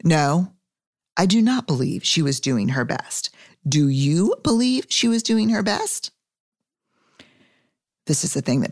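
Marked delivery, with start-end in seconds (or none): 0.0-6.1 prim, slow, overly proper reply; most proper voice. Retold or imitated. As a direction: answer stiffly and properly, lips pursed. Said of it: "I answered in my most proper voice".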